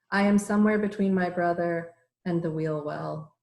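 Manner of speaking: measured verse with pauses between lines; deliberate, evenly paced poem recital; poetry reading. Acted. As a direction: lift each line's start, let it fall away. Reads her poem aloud.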